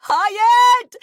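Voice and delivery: loud high yell across the yard. A narrator's reading. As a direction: call him from afar at full voice. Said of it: "she yelled in the direction".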